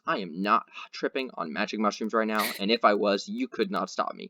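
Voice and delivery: lightly played deadpan certainty; a hint of calm matter-of-fact. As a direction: state it as plain fact, unbothered. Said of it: "the most matter-of-fact voice".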